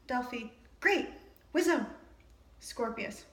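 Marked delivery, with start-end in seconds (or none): 0.8-1.9 excited cheer. Acted. Delphi cheering Albus on.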